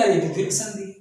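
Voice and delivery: a light, pleased "oh, it's this one"; a touch of surprise; mock discovery. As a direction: act out spotting the answer. Teacher acts student spotting sandhi.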